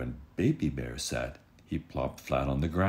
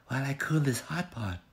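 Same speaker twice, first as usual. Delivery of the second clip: higher, motherly bear voice; Mama Bear; 11 semitones higher than usual. Acted. Mama Bear explaining to her family, higher motherly voice. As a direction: sound like a busy mother bear. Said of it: "she said".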